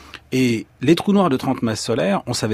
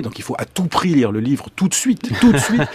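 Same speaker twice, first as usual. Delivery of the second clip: laughing plug. Real, not acted.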